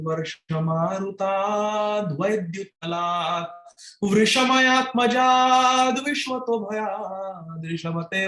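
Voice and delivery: slow, drawn-out Sanskrit chant; verse recitation. Acted. Preacher reciting the Bhagavatam verse to listeners, slow chant. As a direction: savour each syllable of the verse.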